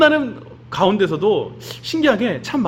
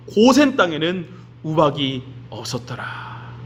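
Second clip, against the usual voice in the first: scripture reading. Acted. Reads Bible verses aloud.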